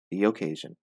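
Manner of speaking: "the occasion" joined by a little y sound between the words; linked with y glide. Shown as a demonstration. Teacher showing the linking sound: y glide in "the occasion". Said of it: "the little Y, that allows you to connect".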